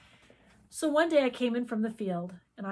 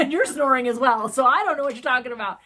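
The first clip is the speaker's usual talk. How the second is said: laughing retort; 4 semitones higher, 13 dB louder than usual. Retold or imitated. Laughing at her own story.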